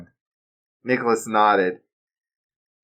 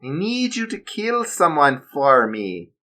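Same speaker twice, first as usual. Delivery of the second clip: smirking German villain; 6 semitones higher than usual. Acted. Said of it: "said with a smirk".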